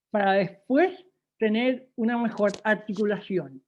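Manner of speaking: slow, exaggerated talk around a pencil held in the teeth; over-articulate slowly with a pencil in the mouth; teacher demoing speech with a pencil between the teeth. Shown as a demonstration. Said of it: "con, el lápiz en la boca".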